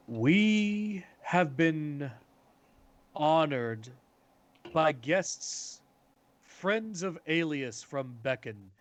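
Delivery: slow, formal announcement in deliberate phrases; lightly voiced council speaker. Council speaker announcing honored guests, lightly acted, slow and formal. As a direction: stretch the opening words and pause for ceremony.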